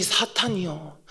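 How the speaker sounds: ordinary talk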